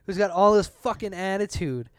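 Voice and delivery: real rising irritation while venting; worked up, punching the swear words; getting angry. Real, not acted. Ranting to co-host about a phone agent, getting angry. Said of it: "I'm sorry if I'm getting angry".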